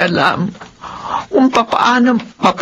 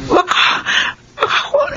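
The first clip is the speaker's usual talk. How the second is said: worried; 8 semitones higher than usual. Acted. Worried mother about son.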